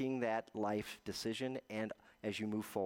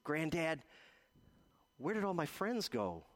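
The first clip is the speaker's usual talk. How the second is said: higher-pitched voice, lightly imitating an upset child; tearful little boy; 5 semitones higher than usual. Boy asking his granddad about lost friends, mildly tearful. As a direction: plead like a lonely child, lightly acted. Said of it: "And he was crying".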